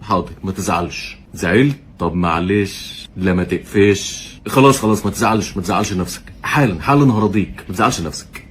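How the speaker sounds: put-on sarcastic baby talk to calm upset rival fans; mock soothing. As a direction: coo at them like a sulking child. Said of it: "بحاول ابقى حنين عليك".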